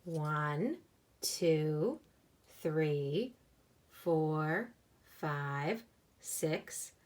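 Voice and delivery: put-on slow, even counting for kids; teaching a child to count. Shown as a demonstration. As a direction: count along slowly, one by one. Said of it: "Can you count with me?".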